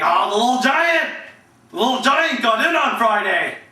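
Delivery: lightly put-on coach voice; mock coach crowing about a player; Herd. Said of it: "Here's my herd impressions".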